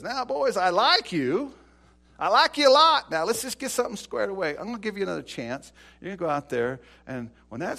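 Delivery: loud, high sweet-talking king; a ruler buttering them up before a threat; coaxing king. Acted. King coaxes the three boys.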